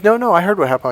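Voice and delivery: imitated cheerfulness. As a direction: brush it off brightly, pitch way up. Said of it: "she was really happy and cheerful".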